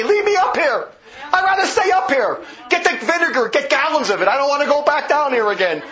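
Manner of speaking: high, laughing plea from a soul in hell; hammed-up relief, half laughing; mock begging damned soul. Speaker mocking Aquinas pulled up from hell, high laughing plea.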